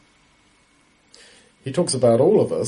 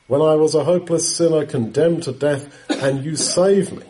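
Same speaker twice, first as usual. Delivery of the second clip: laughing joy; 5 semitones higher than usual. Real, not acted. Joyful retelling of being saved.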